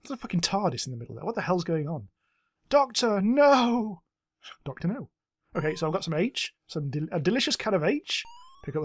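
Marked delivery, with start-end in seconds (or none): 2.7-4.0 dramatic cry. Pretend. Dramatic Doctor Who cry. 4.6-5.1 soft, flat repeat; deadpan. Pretend.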